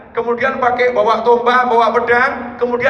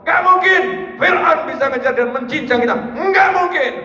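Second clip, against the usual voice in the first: confident shout; 6 semitones higher than usual. Acted. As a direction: assure them over the noise. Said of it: "Umatnya diteriakin". (Musa meneriaki umatnya dengan yakin dan tinggi)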